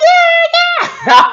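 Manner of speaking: high loud guard yell. Retold or imitated. Guard stopping her run, high loud yell. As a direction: bark out a warning. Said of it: "They start blowing that whistle".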